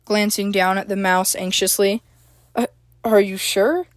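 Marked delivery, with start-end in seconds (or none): 2.6-3.9 shocked. A narrator's reading. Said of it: "April said in shock".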